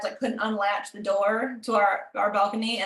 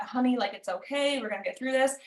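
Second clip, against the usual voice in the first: mild soothing; 3 dB quieter than usual. Retold or imitated. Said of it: "when I need to cry it out".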